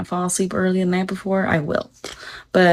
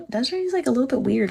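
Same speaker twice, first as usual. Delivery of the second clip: mock a whispered-about remark in high pitch; lightly mimicked gossip, voice lifted; imitated gossip; 6 semitones higher, faster than usual. Mimics people gossiping about her.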